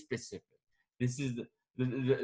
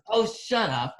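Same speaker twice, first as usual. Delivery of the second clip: teasing disbelief; 9 semitones higher, 4 dB louder, slower than usual. Retold or imitated. Friend's teasing disbelief, acted out.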